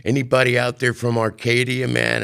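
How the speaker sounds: calling to the crowd. Retold or imitated. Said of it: "he looks out and he goes".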